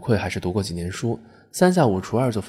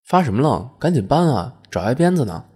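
raised, urgent workmate's scolding; mildly scolding, pitched up; gruff scolding; 4 semitones higher, 4 dB louder than usual. Acted. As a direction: chivvy a slacker along. Workman scolding a dawdling fellow labourer.

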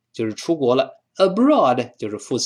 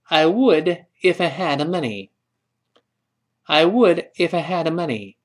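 higher pitch, leaning on "would"; model repeat reading; 3 semitones higher than usual. Shown as a demonstration. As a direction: stress "would" and "had", linking "if I". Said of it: "跟老师再读一遍".

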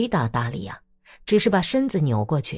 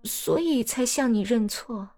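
lightly raised, coaxing apology; ingratiating; 6 semitones higher than usual. Acted. Daria sweet-talking upset Natalya after her confession, ingratiating. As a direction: soften her up as you confess. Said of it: "讨好地说".

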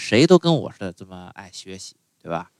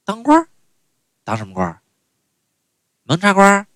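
high, surprised mom's voice; mother puzzled by being teased; startled mother; 8 semitones higher than usual. Retold or imitated. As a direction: blurt out the questions, caught off guard. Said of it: "我妈一愣".

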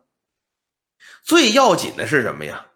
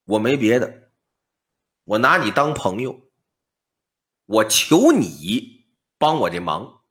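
put-on old man voice; 6 semitones lower than usual. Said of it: "老翁说".

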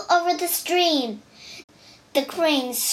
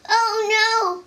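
alarmed; 7 semitones higher than usual. Acted. Erlang threatens to kick the door.

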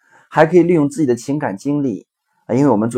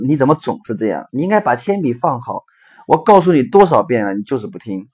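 scolding mother. Retold or imitated. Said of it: "妈妈说".

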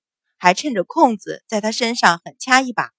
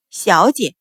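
scornful echo of a title; mocking, cold disdain; cold sneer; 3 semitones lower than usual. A narrator's reading. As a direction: throw the word back with contempt. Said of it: "秦氏冷笑".

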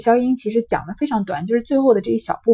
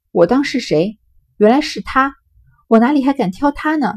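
higher-pitched, mocking sneer at the rival; cold sneer; 3 semitones higher than usual. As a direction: Daiyu sneers back at Xiangyun, cold and mocking. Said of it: "冷笑道".

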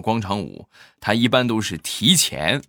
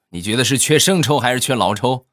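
louder, higher mock-angry question; retold angry wife; 4 semitones higher, 5 dB louder than usual. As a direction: act out a fuming wife demanding an answer. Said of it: "怒气冲冲的就说". (模仿生气的妻子，提高嗓门质问)

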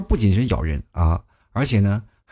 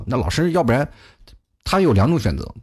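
normal talking voice

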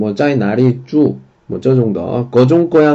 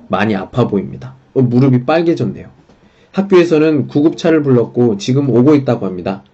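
crisp reporter on the scene, in standard Korean; 표준어 뉴스 리포터 말투; standard news report. Shown as a demonstration. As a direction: read it like a field reporter in standard speech. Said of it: "표준어로 돼 있는, 어, 기사랑".

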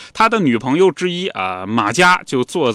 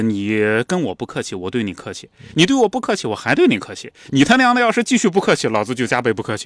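rising anger; faster than usual. Retold or imitated. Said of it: "他就不再克制自己情绪了啊".

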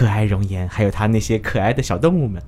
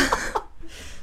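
breathy nervous laugh; 10 dB quieter than usual. Real, not acted. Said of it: "所以是客套话是吗？".

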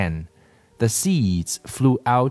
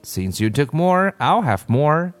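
put-on greedy children's voices; 6 semitones higher than usual. A narrator's reading. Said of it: "Huey said".

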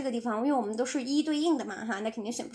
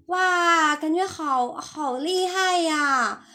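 impressed; 2 semitones higher, much slower than usual. Shown as a demonstration. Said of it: "他是这种语气啊".

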